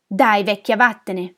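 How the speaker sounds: loud, contemptuous dismissal; harsh rebuke. Acted. Neighbour ordering the old woman to leave, harsh. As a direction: send them away forcefully. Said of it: "mi apostrofò Cresimir".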